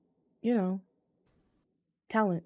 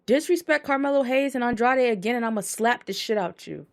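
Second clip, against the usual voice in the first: quoting McAfee; 5 semitones higher, 5 dB louder than usual. Retold or imitated. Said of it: "He said".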